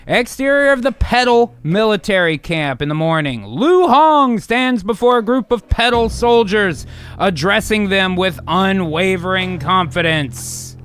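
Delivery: grand read of stage directions; big, punchy screenplay narrator; dramatic script narration. Acted. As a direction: announce the scene with gusto.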